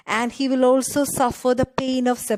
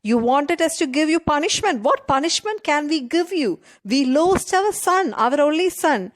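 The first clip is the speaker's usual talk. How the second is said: higher, raised grieving rebuke; grieving shout; 4 semitones higher than usual. Acted. Bereaved old father shouting at the prince, higher and raised. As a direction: cry out the loss of the only son. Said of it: "Now the old man is shouting at Dasharatha".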